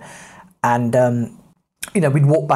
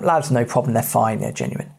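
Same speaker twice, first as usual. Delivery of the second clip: deep husky police officer; 4 semitones lower than usual. Retold or imitated. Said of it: "very deep, husky voice".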